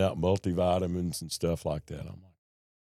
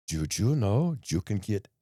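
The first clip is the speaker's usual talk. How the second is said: slow intake nurse; slower than usual. Retold or imitated. Intake girl asks him.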